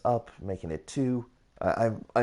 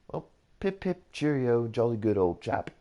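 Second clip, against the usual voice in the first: jokey, high-pitched British accent, hammed up; a lightly played posh British toff, pip pip; 4 semitones higher than usual. Minecraft builder showing off his British accent to viewers, hammed-up British. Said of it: "Can I do a British accent?".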